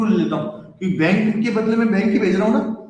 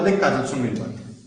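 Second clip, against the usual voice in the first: acting out Monu; 4 semitones higher than usual. Teacher acts Monu talking to Kajal.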